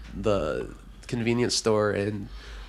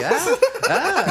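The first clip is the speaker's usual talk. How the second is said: high, laughing grunts; mock pointing customer; 3 dB louder than usual. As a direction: grunt and point like you can't speak English. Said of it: "And he's like".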